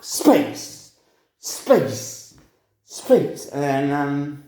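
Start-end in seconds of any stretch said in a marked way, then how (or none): 0.0-3.5 high, breathy bursts of the one word, each cut off; mock yell in a cell. Inmate shouting into an echoey cell, a mock yell. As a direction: call it out to hear the echo. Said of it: "it was a really echoey cell".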